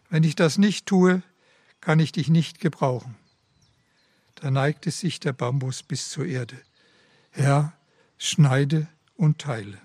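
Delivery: measured, even storytelling voice; a parable read from the pulpit; story reading. A narrator's reading. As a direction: read the parable aloud to the congregation. Reads a story aloud in the sermon.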